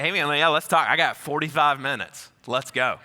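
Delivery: loud, eager, keen to talk; eager invitation. Retold or imitated. Narrator eagerly invites the young cult member to talk, loud and keen. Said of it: "I was like".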